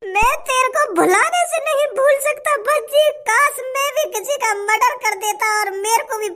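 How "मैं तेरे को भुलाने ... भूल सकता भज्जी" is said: mock-wail the plea through fake tears; fake crying outburst. Friend begs the condemned man, fake tearful cry. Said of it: "काय को रोने का ढोंग कर रहा हो".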